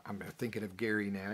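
usual speaking voice

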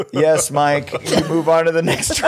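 loud, high game show host call; excited host announcement. Retold or imitated. Host tells Mike he moves on, shouted excitedly. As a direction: announce the winner with a big shout.

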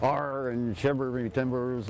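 pirate talk. Shown as a demonstration. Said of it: "How do we impress".

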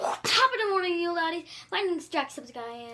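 mock Irish accent. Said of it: "David, you try it".

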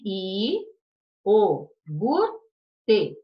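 each syllable said apart with pauses; syllables split apart. Shown as a demonstration. Teacher splitting a word for pupils, syllable by syllable. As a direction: count out I, o, gur, te one by one. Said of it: "Como separa iogurte?".

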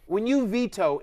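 ordinary talk, nothing marked

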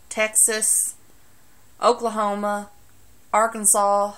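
states named in a thick Southern accent. Shown as a demonstration. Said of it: "show you how bad my accent gets".

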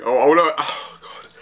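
breathless whisper, lost for words; overwhelmed whisper. Real, not acted. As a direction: whisper it, too overwhelmed to speak. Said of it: "Sorry, I'm overwhelmed".

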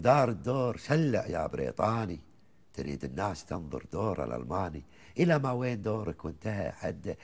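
chanted Gulf verse, rising and falling lines; poem recitation. Acted. Host listens as he recites the old poem, measured and rhythmic. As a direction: recite it like a folk poet to the host.

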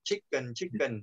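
"chicken" as "chick-kun", weak second vowel; Vietnamese habitual pronunciation. Shown as a demonstration. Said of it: "tiếng Việt đấy". ("chicken" đọc kiểu Việt thành "chích-cần")

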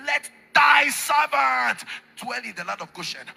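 called out. Shown as a demonstration. Climax of scripture reading.

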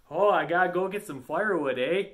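light mock Yooper accent, quick; a jokey Upper Peninsula Canadian-style accent; hint of a Canadian Yooper accent, eh at the end. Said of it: "they have such a Canadian accent".

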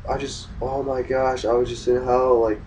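put-on hushed, shaken plea to a girlfriend; mildly frightened, quiet urgency; retold fear. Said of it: "I was so afraid".

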